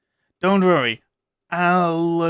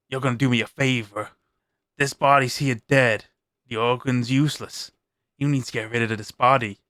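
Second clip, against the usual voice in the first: a lightly lower, commanding vampire voice; vampire compulsion; 3 semitones lower than usual. Acted. Vampire compelling the Irish stranger to dump the body, low and commanding. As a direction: bend his will, cold and firm.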